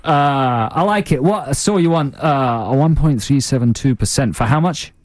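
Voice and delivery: Duncan Ballantyne. Acted. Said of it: "Duncan Ballantyne, I'm interested".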